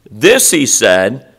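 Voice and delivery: slow, mock-admiring reading of the verse; mock sarcastic reading. Shown as a demonstration. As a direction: stretch it out as if praising Judas.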